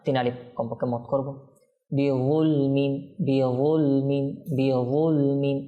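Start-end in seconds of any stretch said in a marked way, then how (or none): 1.9-5.6 বিযুলমিন with a heavy, rounded emphatic "dh"; correct heavy Zha. Shown as a demonstration. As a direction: repeat বিযুলমিন slowly with a full-mouthed Arabic Zha. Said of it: "দেখুন, এটা ওয়া".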